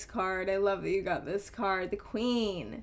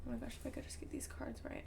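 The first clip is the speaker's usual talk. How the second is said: under her breath; 14 dB quieter, much faster than usual. Real, not acted. Fumbling with cards under breath.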